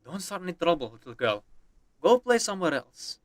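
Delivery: put-on Indian accent. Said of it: "I'm also doing the Indian accent for the local".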